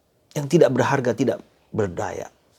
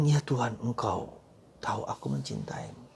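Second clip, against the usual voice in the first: fading reply; 2 semitones lower, 8 dB quieter than usual. Acted. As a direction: let Peter's answer die away. Peter's answer, fading.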